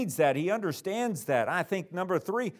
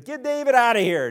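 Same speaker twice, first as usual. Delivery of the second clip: loud, raised order from a king; king's command; 7 semitones higher, 8 dB louder than usual. Acted. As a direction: bark it out like a king throwing him out. Philistine king expels David.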